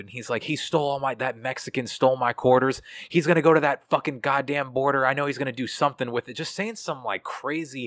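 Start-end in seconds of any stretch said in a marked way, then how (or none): 0.4-6.3 imitating a ranting customer, higher pitch; mock angry accusing rant; angry old man. Coworker imitates customer ranting about quarters, angry. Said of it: "this angry old white dude".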